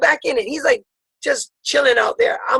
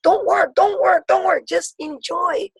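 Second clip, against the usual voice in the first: self reminder; 6 semitones higher, slower than usual. Retold or imitated. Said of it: "I keep telling myself".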